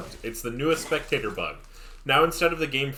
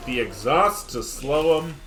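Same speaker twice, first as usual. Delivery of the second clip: live play-by-play. Real, not acted. Caster calling a kill for viewers, play-by-play. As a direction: call the kill, leaning hard on key words.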